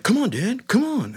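put-on high child voice coaxing dad; pleading kid. Five-year-old urging his dad into the pool, high kid voice.

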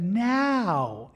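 lightly voiced drawn-out command; the Lord. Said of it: "and the Lord said".

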